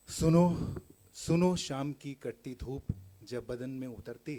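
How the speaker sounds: measured recital, each "suno" lifted and punched; poetry recital. Acted. Poet reciting a love poem to an audience, measured recital. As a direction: recite it in phrases with pauses, falling away at stanza ends.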